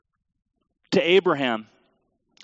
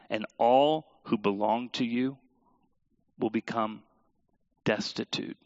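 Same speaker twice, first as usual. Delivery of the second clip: scripture reading. Acted. Pastor reading scripture to church, solemn and fading. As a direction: read Joseph's message to the congregation, solemnly. Reading Joseph's words in sermon.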